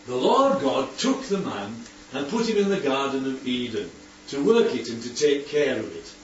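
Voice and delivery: measured Bible reading, slightly low; scripture reading. Acted. Teacher reads Genesis to the group, measured scripture reading. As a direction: read the verse out to the group.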